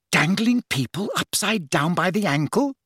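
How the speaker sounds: high disbelieving question; incredulous. Acted. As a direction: ask in shocked disbelief. Hermione incredulous.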